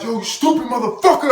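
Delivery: high, loud retold outburst; re-enacted angry yelling; mad. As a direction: lay into him angrily. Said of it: "Now you got me mad".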